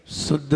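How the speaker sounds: शुद्ध as a low "suddh" with plain "s"; no whistle. Shown as a demonstration. Teacher shows the faulty sound, शुद्ध as "suddh". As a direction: drop the "sh", begin शुद्ध on a weak "s". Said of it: "सीटी नहीं आती".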